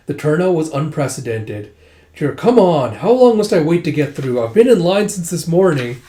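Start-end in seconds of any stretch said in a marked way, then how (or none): 2.1-6.0 louder and higher, impatient grumble; impatient girl stuck in the queue, loudly griping; complaining. Retold or imitated. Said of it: "Riri's, like, complaining".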